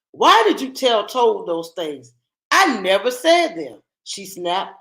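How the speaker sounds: put-on lively storybook narration for kids; reading to children. A narrator's reading. Teacher reading a picture book aloud to children, lively storybook voice. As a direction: read the tale aloud to a class.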